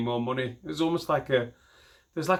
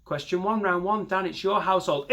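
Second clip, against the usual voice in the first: quiz host voice; 6 semitones higher than usual. Retold or imitated.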